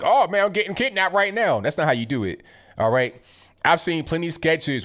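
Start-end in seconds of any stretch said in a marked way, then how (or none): 0.0-1.6 mock bad acting. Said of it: "looking in the camera like".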